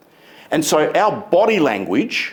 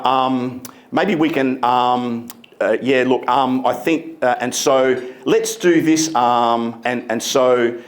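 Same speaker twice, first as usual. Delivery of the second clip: lightly hesitant, ums and uhs; hesitant filler-laden speaker; 3 semitones lower than usual. Retold or imitated. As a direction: stumble along unsure of yourself. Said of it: "It's a habit. And it's a habit that is distracting".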